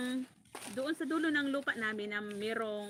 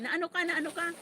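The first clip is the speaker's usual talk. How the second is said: somewhat high worried question; a hint of the anxious brother; lightly voiced worried brother; 6 semitones higher than usual. Brother on the phone, a lightly mimicked worried question. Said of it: "sabi ni Boy".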